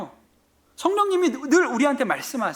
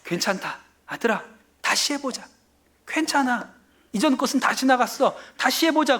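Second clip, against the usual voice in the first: mild voiced comfort that turns hopeful; 3 semitones higher than usual. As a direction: console a fallen child, lightly acted. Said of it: "위로하세요".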